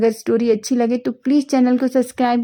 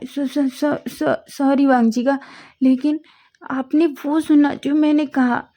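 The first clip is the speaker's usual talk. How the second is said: lightly raised, hesitant voice; nervous young man stammering; 4 semitones higher than usual. Acted. Wing apologising to Wang, nervous stammer.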